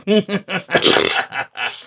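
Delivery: high mock evil cackle; mustache twirling villain laugh. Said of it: "вот этот злодейский смех".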